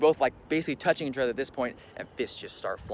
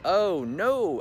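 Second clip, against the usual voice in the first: higher, louder mock "oh no"; retold objection; 7 semitones higher, 5 dB louder than usual. Employee's demands met by the boss, retold objection. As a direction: push up the pitch on a retold protest. Own startled refusal in retold argument.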